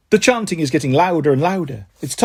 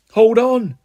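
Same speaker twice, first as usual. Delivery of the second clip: higher, louder interruption; shout; 5 semitones higher, 4 dB louder than usual. A narrator's reading. Andy halting the excited Andys, shouting. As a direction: cut in over the crowd. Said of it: "I shout".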